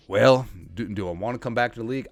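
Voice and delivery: light, mock Mississippi accent; a touch of Mississippi accent, pondering aloud. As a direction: imitate a coach with a slight Mississippi accent. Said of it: "has a Mississippi accent".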